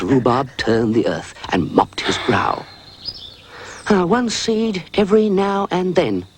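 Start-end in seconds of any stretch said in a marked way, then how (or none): 3.9-6.2 high slow dog reading the packet; reading aloud. A narrator's reading. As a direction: spell out the instructions carefully. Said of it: "read Rhubarb from the side of the packet".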